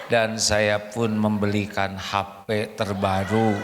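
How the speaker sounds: lightly voiced stiff recorded confession; husband's video apology. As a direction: recite it like a contrite husband on camera. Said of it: "bikin video rekaman".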